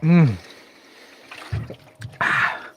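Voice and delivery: ordinary talk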